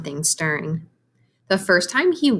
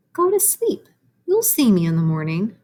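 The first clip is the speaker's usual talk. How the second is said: whispering; 2 semitones higher than usual. Acted. Mysterious dream voice whispering.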